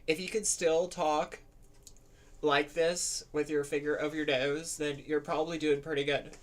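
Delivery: lighter feminine speaking voice; girl voice. Shown as a demonstration. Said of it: "let me bring my voice back up a bit".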